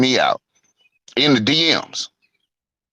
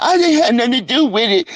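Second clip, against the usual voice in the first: mock hollering; 11 semitones higher than usual. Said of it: "don't start hollering".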